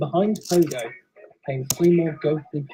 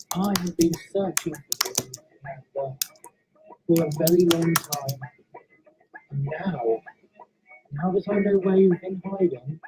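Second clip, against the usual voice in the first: put-on quiet ghost confronting an old enemy; soft ghostly voice; 3 dB quieter than usual. Ghost Pogo speaks to Repulse.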